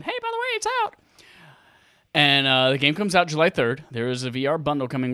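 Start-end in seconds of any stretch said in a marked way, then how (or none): 0.0-1.0 high, offhand mock announcement; casual announcement. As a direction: toss it off like a shrug. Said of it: "Just randomly said".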